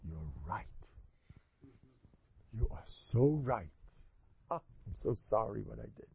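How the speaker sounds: meek concession. Acted. Husband humbly gives in on the spot.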